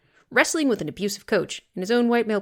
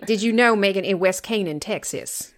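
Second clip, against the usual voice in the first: mock Southern accent. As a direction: play a small-town Texas coach, half joking. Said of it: "hard not to do a terrible Southern accent".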